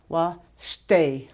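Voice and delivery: Wa stay, with stay accented; stress on second syllable. Shown as a demonstration. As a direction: split Wa stay, leaning on stay. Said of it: "the one that's accented".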